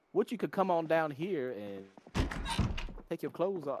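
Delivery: smooth, slow seductive radio host; ladies man radio DJ. Retold or imitated. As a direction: croon it like a late-night love expert. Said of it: "he would just".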